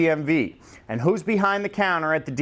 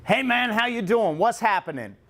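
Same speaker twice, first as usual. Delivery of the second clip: casual dude hello, pitched higher; lightly voiced easygoing buddy; a hint of a relaxed guy saying hey; laid back greeting; 5 semitones higher than usual. Shown as a demonstration. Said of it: "informal speaking style".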